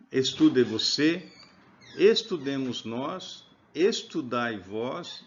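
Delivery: each form of estudar drawn out slowly; slow listing. Shown as a demonstration. Teacher spelling out imperative forms slowly for students. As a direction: dictate the conjugations slowly. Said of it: "eu dou ordem a partir da segunda pessoa".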